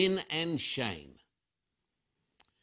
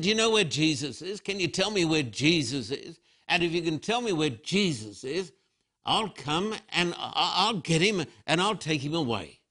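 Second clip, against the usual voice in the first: quicker, eager, anxious asking; a grieving woman begging for an answer; urgent pleading. Retold or imitated. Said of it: "She, she said".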